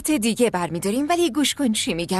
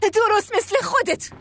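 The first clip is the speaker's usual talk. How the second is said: angry outburst; 4 semitones higher than usual. Acted. Stepmother's angry outburst at father.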